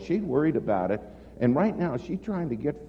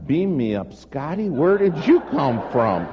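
loud, astonished outburst; stunned exclaim; 7 dB louder than usual. Retold or imitated. Preacher retelling his shock at the stranger, loud astonished exclaim. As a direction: blurt it out in disbelief.

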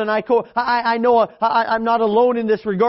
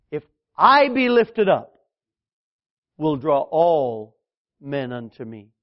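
slow, hushed scripture; 6 semitones lower, slower than usual. Acted. Preacher quoting Jesus to the congregation, slow and hushed. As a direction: read it slowly, letting it fade.

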